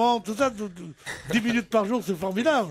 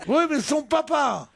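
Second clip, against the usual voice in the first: higher-voiced imitated child; little kid; 4 semitones higher than usual. Child correcting an adult about Pinocchio, imitated higher kid voice. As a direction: pipe up like a child correcting someone. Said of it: "il y a un autre qui est arrivé qui dit".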